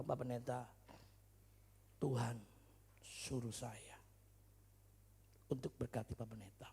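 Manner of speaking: low, soft, halting voice; quiet, solemn confiding; hushed retold caller. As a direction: break it into small, careful phrases. Retold caller speaks on the phone.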